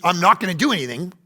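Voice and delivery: quick, careless refusal; can't be bothered; dismissive. Pretend. Son waving off his mother's request, quick and careless.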